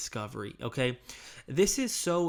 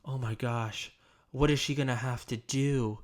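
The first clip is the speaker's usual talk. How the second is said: softened concern. Shown as a demonstration. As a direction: lean in and let the concern land. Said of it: "you can soften your volume".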